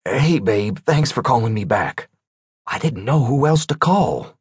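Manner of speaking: a hint of a nervous caller; worried man voice. Rice voiced on the phone.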